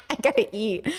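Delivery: murmured reminder to self; soft aside. Real, not acted. Streamer to herself, ending stream, softly.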